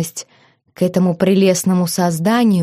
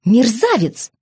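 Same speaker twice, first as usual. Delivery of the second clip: indignant cry; 5 semitones higher than usual. A narrator's reading. Wife insults husband in struggle.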